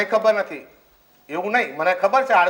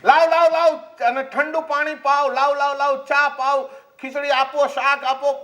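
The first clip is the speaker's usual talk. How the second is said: busy fussing; 6 semitones higher than usual. Retold or imitated. Wife orders food for son.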